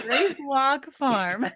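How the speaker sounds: Grace Walk Farm said slowly in a northern accent. Shown as a demonstration. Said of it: "I'm gonna say it in the northern accent".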